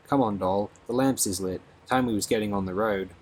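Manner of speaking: cheery, lightly voiced South London girl; a friendly cockney girl coaxing the newcomer along; a hint of a South London accent, chatty and kind. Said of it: "spoken in a thick South London accent".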